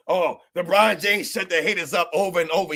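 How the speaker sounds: whiny mock quote of the fans. Mocking the crying fans to his stream. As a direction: sneer it like a whining fan. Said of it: "You're out here crying and moaning".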